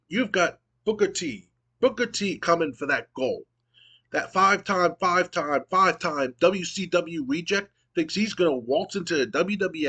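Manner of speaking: a hint of a cocky wrestler trash-talking; The Rock promo. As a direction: cut a mild mock Rock promo at the champ. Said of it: "And The Rock goes".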